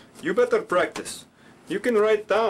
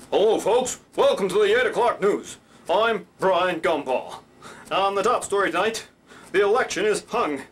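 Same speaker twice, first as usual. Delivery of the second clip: Brian Gumbel; 2 semitones higher than usual. Shown as a demonstration. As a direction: project it like a big broadcast anchor. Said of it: "he sounded like this".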